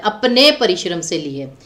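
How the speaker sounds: teacher stressing अपने. Shown as a demonstration. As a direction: lean on the word अपने as the correct form. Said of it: "परिश्रम के साथ पुल्लिंग शब्द आता है".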